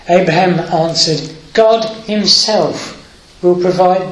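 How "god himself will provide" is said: choked up. Real, not acted. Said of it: "I always get emotional over this bit".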